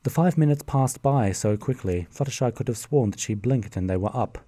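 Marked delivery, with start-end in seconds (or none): none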